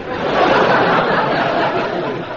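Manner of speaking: loud chuckle at his own joke; tickled laugh; amused laugh. Acted.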